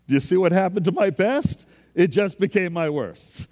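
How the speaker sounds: fervent pulpit push; emphatic preaching. Real, not acted. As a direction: hit them with the point. Preacher driving point home.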